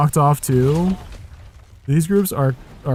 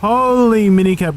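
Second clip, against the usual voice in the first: excited; 6 semitones higher, 6 dB louder than usual. Real, not acted. Sudden thrill at the game.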